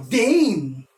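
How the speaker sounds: DAN long and strong, then GE and ROUS apart and lighter; accented and unaccented syllables. Shown as a demonstration. Teacher marking accents, strong beat then two weak. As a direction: split "dangerous": punched DAN, pause, two weaker beats. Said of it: "with more pressure".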